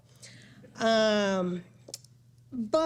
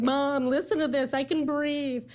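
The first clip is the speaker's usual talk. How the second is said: tearful; 4 semitones higher than usual. Retold or imitated. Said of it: "like, crying".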